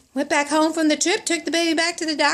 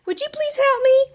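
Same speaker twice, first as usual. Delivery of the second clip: high retold plea; pleading; 8 semitones higher than usual. Mother asks bottle feeding lady for help, high plea. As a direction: beg with the voice lifted high.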